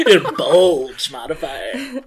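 slow words through laughter; laughing. Real, not acted. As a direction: giggle while repeating it. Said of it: "I was gonna say".

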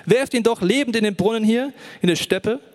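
lauter, höher, langsam beschwörend; laut flehend. Acted. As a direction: Ruben beschwört die Brüder laut und langsam. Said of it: "rief der". (Ruben fleht die Brüder laut an)

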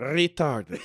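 Retarded with a rolled r. Pretend. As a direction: trill the r in Retarded. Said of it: "If you roll the R".

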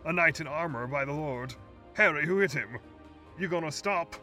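loud, high rushed questions; excited shout. Acted. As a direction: call across the cab in alarm. Train crew shouting over engine.

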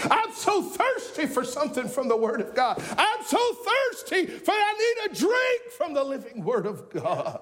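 fervent cry of longing, rising in pitch; desperate thirst, building. Acted. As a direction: begin pleading, climb to a high cry. Acts the thirsty psalmist, building.

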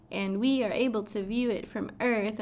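usual speaking voice

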